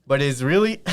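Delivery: reading while still winded; breathless after running upstairs; out of breath. Real, not acted. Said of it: "I'm out of breath from running up those stairs".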